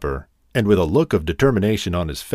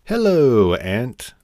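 bright call, louder and higher on hello; cheerful greeting; 3 semitones higher, 4 dB louder, much slower than usual. Acted. Grasshopper greets the ant at his door, cheerfully calling out. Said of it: "he cried cheerfully".

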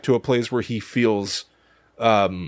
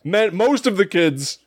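laughing; 8 semitones higher than usual. Real, not acted. Laughing through the joke.

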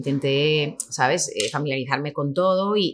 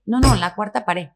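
raised, louder, slow insistence; insistent correction; 6 semitones higher, 6 dB louder than usual. Retold or imitated. Correcting the novice actress at the casting, slow and insistent. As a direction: spell it out slowly and firmly.

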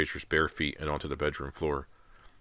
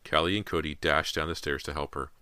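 ordinary delivery, nothing marked

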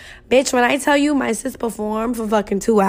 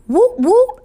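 hype cheer; 11 semitones higher, 5 dB louder than usual. Real, not acted. Hyping sister's hometown.

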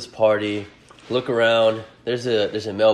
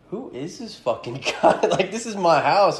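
mock angry host; 8 semitones higher than usual. Host challenging him at a party.

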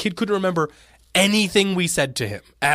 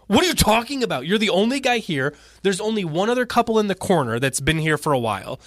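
incredulous retort; 5 semitones higher than usual. Retold or imitated. To the server who asked if they'd been helped, mock incredulous. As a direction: voice jumps high in mock disbelief. Retelling outrage at clueless server.

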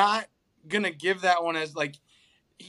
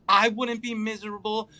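mild emphasis on "I"; stress on I. Retold or imitated. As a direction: lean on "I" in "I wouldn't be miserable". Listing who'd be happy.

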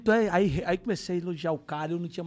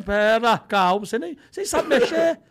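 high, loud eager pleading; eager wife; 11 semitones higher, 13 dB louder than usual. Retold or imitated. Wife wanting an iPhone for herself, high and loud.

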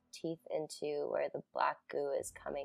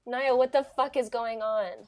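higher, louder, shocked demand; alarmed outburst; 7 semitones higher, 8 dB louder than usual. Acted. Ivy alarmed at the scene.

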